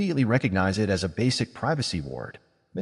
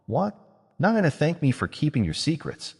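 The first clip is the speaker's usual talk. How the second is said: mock-hurt whine, pitched up; complaining; 6 semitones higher than usual. A narrator's reading. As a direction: play the offended witch. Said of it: "Silver Lake complained".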